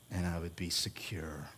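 breathy near whisper. Real, not acted. Pastor whispering the feeling of safety at home, whispered. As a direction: let it drop to a whisper.

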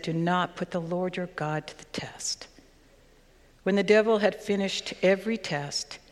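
measured, solemn reading of the Gospel; scripture reading. Acted. Scripture reading before the sermon.

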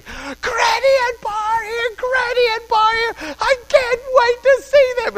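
high, squealing child voice, imitated; a four-year-old shrieking that the grandparents are here; excited screaming. Father imitating daughter screaming that grandparents arrived, high squeal. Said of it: "began screaming".

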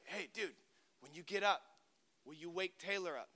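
softly imitated bedtime request; hushed relayed request. Friend asking half-asleep roommate a favour, hushed.

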